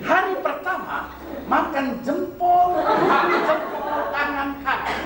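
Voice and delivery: high, slow, giggling as he tells it; half-laughing joke telling; laughing through it. Real, not acted. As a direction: chuckle the words out.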